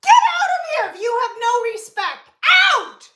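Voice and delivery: sharp, indignant command; hurt creator ordering rude viewers out, angry. Real, not acted. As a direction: throw them out of the room.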